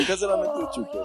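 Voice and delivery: high, breathless laugh-cry; crying with laughter. Real, not acted. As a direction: squeeze the words out while laughing hard. Cracking up over the story.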